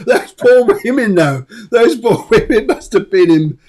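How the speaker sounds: loud, helpless laughter through the words; laughing hard. Real, not acted. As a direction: struggle to talk while laughing. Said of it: "we're laughing our heads off".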